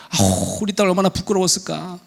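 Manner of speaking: gently acted motherly sympathy; empathizing mother. Mother feeling for her embarrassed daughter, sympathetic. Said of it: "정말 제대로 공감하는 엄마겠죠".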